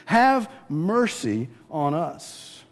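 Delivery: slow, drawn-out plea for mercy; humble plea. Retold or imitated. Blind men crying to Jesus, slow humble plea. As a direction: stretch each word like a beggar. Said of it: "these guys cry out".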